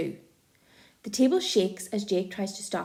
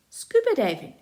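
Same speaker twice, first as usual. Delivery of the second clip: much higher, loud disbelieving echo; incredulous repeat; 11 semitones higher, 6 dB louder than usual. Acted. Felix echoing Jake's idea in disbelief. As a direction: repeat it like you can't believe it.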